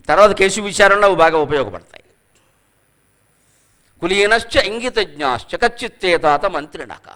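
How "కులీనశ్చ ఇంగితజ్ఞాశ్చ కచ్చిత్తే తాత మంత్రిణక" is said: verse recitation. Shown as a demonstration. Quoting a Sanskrit verse.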